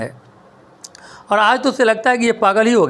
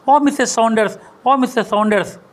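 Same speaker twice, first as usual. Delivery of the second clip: lightly raised call across the garden; mild calling out; 2 semitones higher than usual. Acted. Scientist calls to his neighbour across the lawn, mild raised call. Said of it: "ज़ोर से चिल्लाता है".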